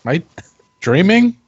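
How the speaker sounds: can't believe the gift, laugh through it; disbelief. Acted. Brother stunned by the sword gift, laughing disbelief.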